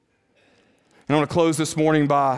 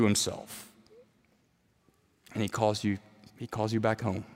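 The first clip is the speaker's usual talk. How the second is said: lower, softer preaching, phrase by phrase; hushed sermon close; 6 semitones lower, 5 dB quieter than usual. Real, not acted. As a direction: let the sermon settle quietly to its end.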